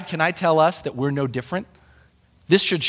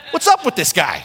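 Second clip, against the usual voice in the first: East Coast style. Retold or imitated. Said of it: "East Coast style".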